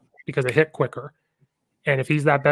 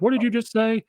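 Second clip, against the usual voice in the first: surprised retort; 8 semitones higher than usual. Retold or imitated. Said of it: "I was like".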